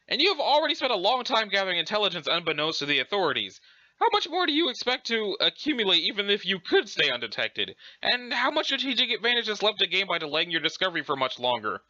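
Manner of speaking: prim British reasoning; lilting mock-British; Urania Umbra. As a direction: argue the case in a put-on British voice. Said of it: "pretending to be British".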